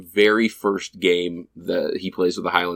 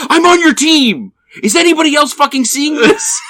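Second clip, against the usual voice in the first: high, loud, incredulous protest; outraged appeal; 7 dB louder than usual. Retold or imitated. Goalie taunted by teammates appeals to the room, outraged. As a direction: call out to the whole room. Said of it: "the call to the, the room".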